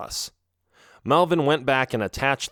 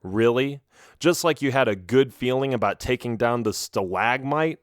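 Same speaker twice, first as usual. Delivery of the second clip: understated sarcasm; a touch of mocking doubt in the question; sarcastic. Boy doubts Garin's hunch, mildly sarcastic. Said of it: "I asked sarcastically".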